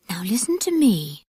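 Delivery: a touch of earnest urgency; mildly earnest, drawing them in. Acted. Jack calls the children close, mildly earnest. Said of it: "in such an earnest voice".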